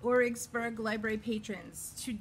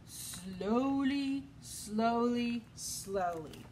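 sleepy yawning sloth; much slower than usual. Acted. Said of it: "the sloth yawned and said".

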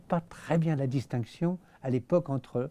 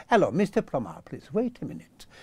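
mock English actor; 4 semitones higher than usual. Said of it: "je vais te le faire".

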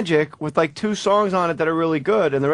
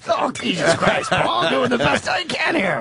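slow, laughing mock Nolte; a light laughing attempt at Nolte; Nick Nolte impression; 3 semitones higher, slower than usual. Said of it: "Nick Nolte doing the speaker".

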